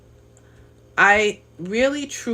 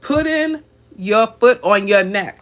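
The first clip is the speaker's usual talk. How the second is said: slow, louder, relishing each word; savouring the phrase; 4 dB louder than usual. Retold or imitated. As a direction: lean into the viewer's words, slowly. Reads viewer's comment with relish.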